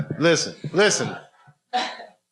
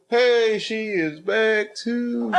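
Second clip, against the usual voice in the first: slow, higher mock British accent; drawn-out playful British accent imitation; 9 semitones higher, much slower than usual. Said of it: "I wanna learn how to talk like you".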